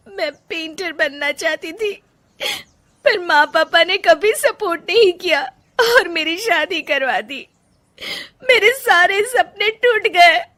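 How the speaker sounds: tearful, voice catching; crying. Acted. Rajni showing husband her paintings, crying. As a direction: cry over the broken dreams. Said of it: "Rajni फूट फूट कर रोने लगती है".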